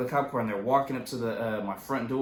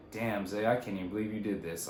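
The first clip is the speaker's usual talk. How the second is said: disappointed mom; 5 semitones lower, 7 dB quieter than usual. Retold or imitated. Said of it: "like, really disappointed".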